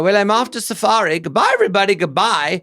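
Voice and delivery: breezy idiot farewell; Mister Canby voice. Retold or imitated.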